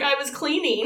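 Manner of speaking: laughing quote. Retold or imitated. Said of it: "And he's like".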